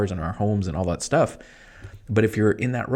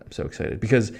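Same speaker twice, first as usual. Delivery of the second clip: excited; 3 semitones higher than usual. Real, not acted. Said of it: "can you tell I'm excited?".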